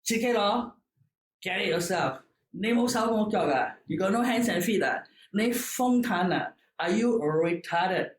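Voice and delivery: mocking servant scolding the child. An old servant scolds the pampered boy, mock sharp. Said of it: "And her reply is".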